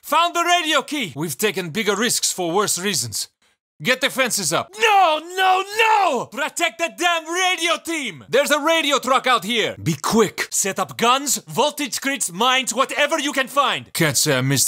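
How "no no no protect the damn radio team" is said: high desperate yell; frantic raised shout; panicked shout. Acted. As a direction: scream for the radio team to be protected.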